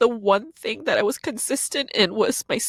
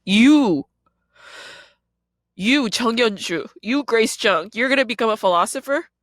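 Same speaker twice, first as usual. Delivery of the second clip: mocking scorn; 2 semitones higher than usual. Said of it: "They were like".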